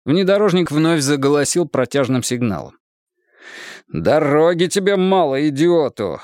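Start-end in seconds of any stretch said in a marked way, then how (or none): 3.9-6.2 irritated grumble. Acted. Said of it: "с раздражением проворчал".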